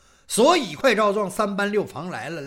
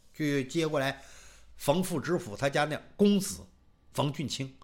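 ordinary delivery

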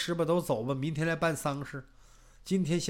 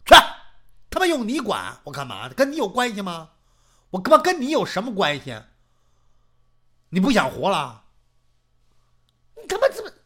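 angry quarrel; 6 dB louder, faster than usual. Acted. Old couple quarrel.

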